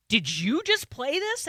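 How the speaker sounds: high, slow amazed disbelief; can't believe her son chose this; surprised question. Retold or imitated. Mother asking son about a band, amazed and slow.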